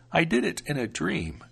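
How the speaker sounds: protective grandmother, unhurried; old grandmother. Acted. Grandmother apologizes.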